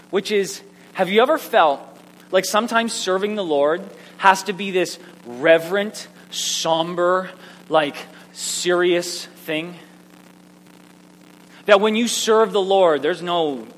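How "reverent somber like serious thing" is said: slow, weighty, evenly intoned words; somber, measured delivery; mock solemnity. Shown as a demonstration. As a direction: draw it out with reverent gravity. Mimics solemn view of serving.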